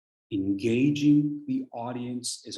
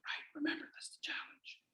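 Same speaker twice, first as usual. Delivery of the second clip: stage whisper; 13 semitones higher, 15 dB quieter than usual. Pretend. Trainer whispering the challenge to class. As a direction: let them in on a secret.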